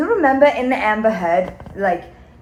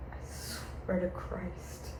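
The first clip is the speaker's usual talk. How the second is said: whispered, slow and hushed; a slow conspiratorial whisper; 2 semitones lower, 16 dB quieter, slower than usual. Acted. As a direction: drop to a secret whisper. Hushed aside in story.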